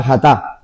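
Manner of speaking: "jatá" with the stress on the last A, ja-TÁ; "jatá" as ja-TÁ, the final A stressed clearly. Shown as a demonstration. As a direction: say "jatá" as ja-TÁ, leaning on the final syllable. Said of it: "acento en la A".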